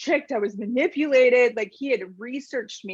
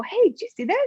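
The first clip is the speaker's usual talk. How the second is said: playful nudge; 8 semitones higher, faster than usual. Retold or imitated. Tapping on it with kids.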